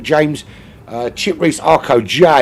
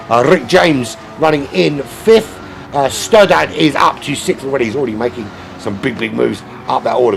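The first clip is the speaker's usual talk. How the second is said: excited, higher-pitched sim racing commentary; live race play-by-play; 5 semitones higher, 4 dB louder than usual. Real, not acted. Streamer calling the lagging racer off the line, excited race commentary. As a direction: call the race start with rising urgency.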